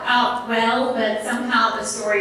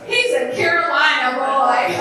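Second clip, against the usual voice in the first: laughing, slightly higher; mama pleased; 4 semitones higher than usual. Retold or imitated. Mama pleased about her daughter's boy, laughing. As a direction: voice mama's delight with a laugh. Mama's happy thought.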